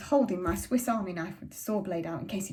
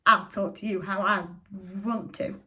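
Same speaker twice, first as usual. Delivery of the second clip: louder, slow, defiant father shouting; furious father; 6 dB louder, slower than usual. A narrator's reading. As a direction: spit it out, drawn out and loud. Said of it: "And Father shouted".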